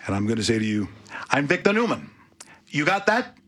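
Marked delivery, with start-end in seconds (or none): 1.3-3.4 higher, mock-menacing Victor Newman voice; lightly hammed tough-guy threat; a hint of a soap villain laying down the law; menacing soap tycoon. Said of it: "You damn well look at me".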